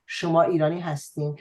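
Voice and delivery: standard Tehrani Persian, quick; Tehrani accent. Shown as a demonstration. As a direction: say it in plain Tehrani dialect. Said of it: "the Tehrani dialect would be".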